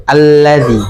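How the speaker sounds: "alladzi" with a light, thin held double L; lam ganda biasa. Shown as a demonstration. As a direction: hold the L in "alladzi" lightly, tongue tip only. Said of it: "lam doublenya yang lain beda". ("alladzi" dengan lam tipis ditahan)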